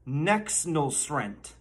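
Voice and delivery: very slow, deliberate "Nexnulsrent"; teaching pronunciation. Shown as a demonstration. Mock teacher repeating a Bidenese word, very slow pronunciation demo. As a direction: draw out "Nexnulsrent" for the class. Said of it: "The first word I'm going to teach you".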